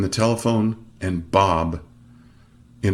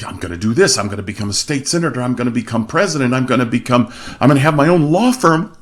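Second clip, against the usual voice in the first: brisk boasts building to a louder, higher peak; mounting enthusiasm; 4 semitones higher, 3 dB louder, faster than usual. Retold or imitated. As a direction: reel off big plans with growing excitement. Evan eagerly reels off his plans.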